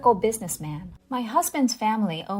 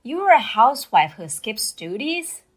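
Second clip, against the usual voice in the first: loud, indignant scolding; husband berating his wife over the phone, loud and indignant; 7 dB louder than usual. Retold or imitated. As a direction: berate her for skipping her duties.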